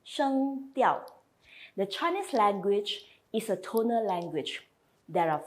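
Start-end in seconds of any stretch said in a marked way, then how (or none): 0.0-1.0 Sheng diao said clearly; teacher modelling term; Mandarin term. Shown as a demonstration. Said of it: "we call it as sheng diao".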